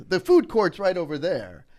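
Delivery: loud imitation of a wisecracking official; joking jibe. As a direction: call out mock-helpful directions as a tease. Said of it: "joking about me carrying it".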